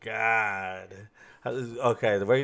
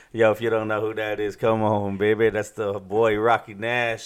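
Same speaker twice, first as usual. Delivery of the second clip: hype announcer intro; 5 dB louder than usual. Acted.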